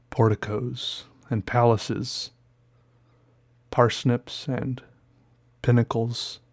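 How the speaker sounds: slow, grand, sighing delivery; lightly hammed-up lofty speech; pompous orator. Slow pompous speech after coffee.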